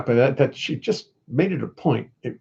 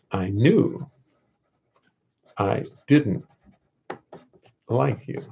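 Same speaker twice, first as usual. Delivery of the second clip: slow, word by word with long pauses; halting, spaced-out phrases; writing it down; 2 semitones lower, much slower than usual. Pretend. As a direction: dictate to yourself while jotting it down. Writing the line down slowly.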